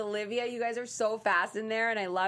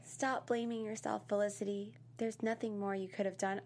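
condescending impression; 7 dB quieter than usual. Co-host mimicking Dinah consoling Felicity, mock condescending. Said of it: "she's so condescending".

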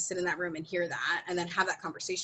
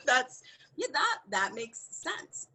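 slow, wry laugh trailing off; laughing wryly; 7 semitones higher, much slower than usual. Real, not acted. On the double standard, she laughs wryly. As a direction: laugh it off, bitter.

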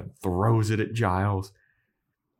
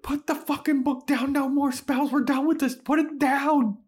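mock scream. Podcaster imitating Giles screaming at Anya, mock high shriek. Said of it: "He's screaming it at Anya".

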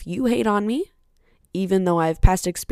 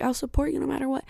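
mocking fake supporter; 7 semitones higher, 4 dB quieter, faster than usual. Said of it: "as I said, like".

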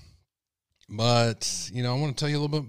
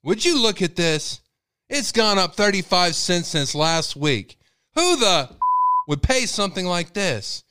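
loud, much higher, slow outraged yelling; angry dad rant; 8 semitones higher, 6 dB louder, slower than usual. Retold or imitated. Father fuming over a price rise, loud high yelling. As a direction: rage at the price tag for the whole store to hear. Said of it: "He'd be like".

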